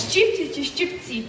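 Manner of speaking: "Щипці чи щипці?" read out slowly, each stress set apart; slow stress contrast. Shown as a demonstration. Quizzing a teacher on stress, slow careful contrast. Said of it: "правильно поставити наголос".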